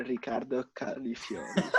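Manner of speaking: self-conscious Italian pronunciation, half laughing; Italian accent. Shown as a demonstration. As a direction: say the name in Italian, a little shyly. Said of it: "Say it in Italian".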